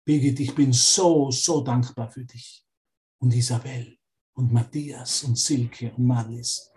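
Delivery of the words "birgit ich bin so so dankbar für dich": gentle loving voice. Retold or imitated. Holy Spirit reassuring a student, gently and tenderly. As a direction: comfort them like a loving guide. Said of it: "Der Heilige Geist sagt".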